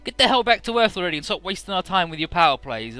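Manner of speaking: acted aggressive dismissal. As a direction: snap at them in acted irritation. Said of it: "suddenly getting much more aggressive".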